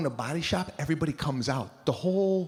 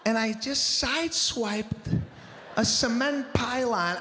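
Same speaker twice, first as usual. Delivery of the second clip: a hint of a breezy wife, laughing through it; lightly voiced wife, giggling; wife's cheerful confession; 5 semitones higher than usual. Wife cheerfully confessing a car scrape, laughing. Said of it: "She's like".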